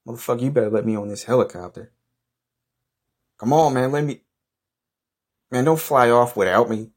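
high-pitched, urgent protest; angry pleading. Acted. Man yelling at departing helicopter crew, desperate and angry. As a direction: demand and beg, voice pushed up. Begging not to be left behind.

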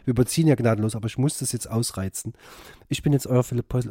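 close-miked and intimate; right in your ear. Real, not acted. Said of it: "Ich geh jetzt mal ganz nah".

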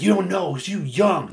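high-pitched imitation of arguing; retold heated dismissal. Older protester dismissing younger man, imitated exasperation. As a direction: dismiss him heatedly, as if quoting.

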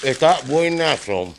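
talking through a bite of bread; words round a mouthful, slow; mouth full. Real, not acted. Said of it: "para no hablar con la boca llena".

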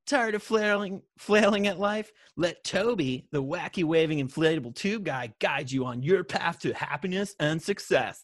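lightly voiced surfer; touch of surfer dude in the reading. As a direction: read it with a hint of surfer. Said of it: "This sounds like a surfer".

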